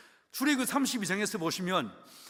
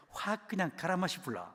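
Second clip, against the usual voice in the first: laughing Gyeongsang-dialect threat 갈아 마시 불라; 3 semitones lower, 5 dB quieter than usual. Retold or imitated. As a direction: toss off the angry Gyeongsang saying with a chuckle. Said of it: "저는 경상도 사람인데". (웃으며 경상도 사투리로)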